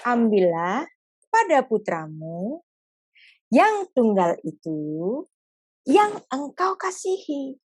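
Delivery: very slow, drawn-out tender words; God gently naming the beloved son; slow and gentle. Acted. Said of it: "ngomongnya itu pelan-pelan gitu".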